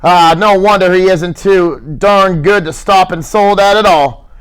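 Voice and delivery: mild heated gripe; irritated grumbling. Acted. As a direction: grumble at Lenny about the walk. George griping, heated.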